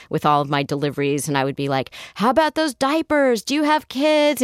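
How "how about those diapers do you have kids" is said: high, eager small talk; eager chatty. Retold or imitated. To the delivery guy, desperate for company, eagerly chatty. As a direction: pester him with hopeful chatter.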